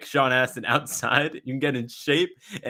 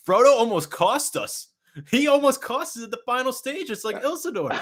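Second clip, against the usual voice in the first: heated rant; 11 semitones higher than usual. Real, not acted. Ranting about Frodo almost failing.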